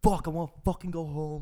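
imitated loud, high complaint; bitching. Retelling a friend bitching after the accident, loud complaining. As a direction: whine it loudly, mocking a drunk friend. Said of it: "Justin's just bitching the whole time".

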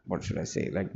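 words stretched through a yawn. Real, not acted. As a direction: say it mid-yawn, breathy and quiet. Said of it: "yawning again".

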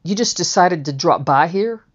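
lightly imitated New York accent; a hint of New York accent in a questioning line. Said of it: "in that New York accent".

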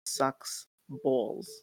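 slow, slight New Yorker accent. Real, not acted. Guest recalls how hard it's been, New Yorker accent. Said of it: "I said that very New Yorker".

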